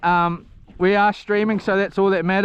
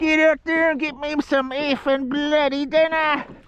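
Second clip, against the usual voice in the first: silly, dumb-sounding, high put-on woman's voice; 7 semitones higher than usual. Retelling what his wife told him, in a dumb voice imitating her. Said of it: "I don't know why I'm doing these dumb voices".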